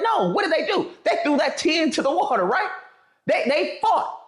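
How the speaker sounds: heated and amused; laughing outrage. Retold or imitated.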